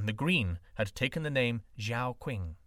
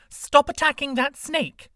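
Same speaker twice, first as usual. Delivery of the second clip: commanding woman; 14 semitones higher, 11 dB louder than usual. A narrator's reading. Woman ordering the beggar.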